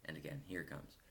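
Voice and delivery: confiding monologue with lilting, rising questions; lightly theatrical storyteller, musing aloud with lively pitch swings; lightly acted musical theatre narrator. Man shares a favourite record moment with his audience, confiding monologue.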